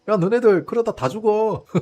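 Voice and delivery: menacing threat through a laugh, loud and slow; drawn-out mock threat breaking into laughter; Trump's chilling laugh. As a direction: imitate a gleeful, creepy threat. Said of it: "너무 섬뜩하게 트럼프가 웃으면서 이야기를".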